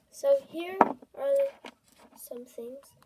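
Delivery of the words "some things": whispering. Real, not acted. Whispered trailing aside.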